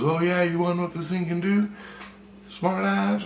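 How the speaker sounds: high, quick mocking challenge; imitated angry taunt. Armed man threatening the kid, imitated taunt.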